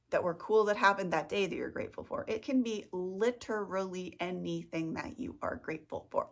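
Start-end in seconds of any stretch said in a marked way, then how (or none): 2.3-6.3 flat robotic beep boop voice. Pretend. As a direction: talk like a little robot. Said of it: "talking like a beep boop robot".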